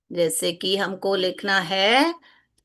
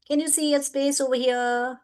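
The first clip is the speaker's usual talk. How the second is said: slow teacher question; 2 semitones higher, much slower than usual. Shown as a demonstration. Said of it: "asks the children".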